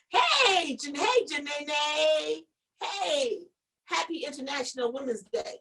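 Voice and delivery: drawn-out greeting to a viewer; sudden shout-out. Real, not acted. Greeting viewer mid-story.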